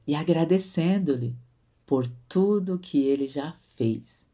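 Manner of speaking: measured, emphatic Bible reading; scripture reading. Acted. Devotional leader reading the base verse to listeners, emphatic scripture reading. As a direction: read the verse out firmly, phrase by phrase.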